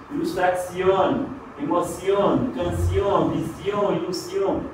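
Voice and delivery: "ilustración, emoción, canción" with ringing Spanish -ión; Spanish words, the final "ión" said as i-ON; Spanish -ión endings. Shown as a demonstration. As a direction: list them in Spanish, each ending in a clear "ión". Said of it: "as palavras que em espanhol terminam em ion".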